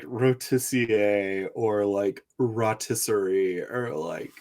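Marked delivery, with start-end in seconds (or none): 0.0-1.5 "rotissier" ending in -ee-ay; slow "rotissier" with a French-like ending; French-style variant. Shown as a demonstration. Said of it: "I could see, like". 2.4-3.6 "rotisserie" starting with rah; "rotisserie" with an open first vowel; alternative pronunciation. Shown as a demonstration. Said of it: "I could see, like".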